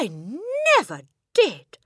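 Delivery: loud, high denial; exclaiming. A narrator's reading. Boy denying the theft to his headmistress, exclaiming. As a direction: burst out in protest. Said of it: "the boy exclaimed".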